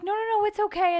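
high, loud reassuring teacher voice; soothing teacher. Retold or imitated. Teacher comforting a crying child, high and loud. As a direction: play the teacher calming a kid. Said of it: "she was like".

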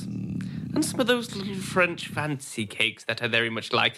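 lordly, deliberate character voice; fussy breakfast orderer. Acted. Master asks butler Terence for breakfast, lordly and deliberate. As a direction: order breakfast with grand emphasis.

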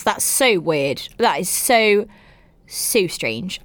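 low, half-hearted West Country drawl on "so weird"; West Country accent. Pretend. Reacting to weird parents in a light West Country accent. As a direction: slip into a lightly voiced West Country twang. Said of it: "I don't know why I went, uh, West Country then".

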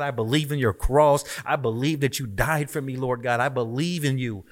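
urgent, earnest repentance prayer; fervent prayer. Retold or imitated. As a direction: cry out to God as if kneeling at the altar again.

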